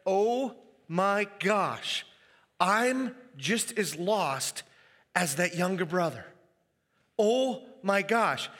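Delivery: slow, stretched-out oh my gosh, stunned by guilt; dismayed realization. Acted. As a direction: let the guilt dawn slowly. Remorseful Pharisees realize they're lost.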